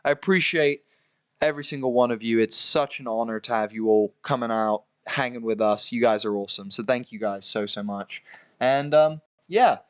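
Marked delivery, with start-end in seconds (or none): 0.1-8.2 tipsy, tired and slurring. Real, not acted. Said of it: "I'm tipsy and tired".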